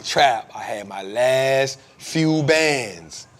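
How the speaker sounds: slow, drawn-out imitation of a buddy; lightly voiced friend, slow and deliberate; imitating his friend. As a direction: stretch every word like the friend does. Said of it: "He always gonna remind me".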